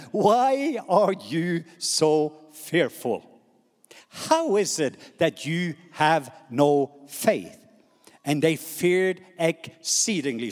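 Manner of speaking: slow, drawn-out Bible reading; scripture reading. Acted. Preacher reading of Jesus questioning the disciples, slow and weighty. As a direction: let each phrase stand alone, stretched and deliberate. Reads scripture aloud to congregation.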